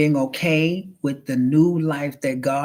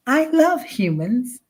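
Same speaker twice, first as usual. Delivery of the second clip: higher, slow, sugary robot lie; robot fake sweetness; 8 semitones higher, slower than usual. Rogue robot pretending to love humans, slow and higher. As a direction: sell it slowly like a machine faking love.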